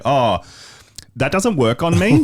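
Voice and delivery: high, slow mock-sweet brush-off; sing-song refusal to a pet; mock dismissive. Retells brushing off the yelling cat.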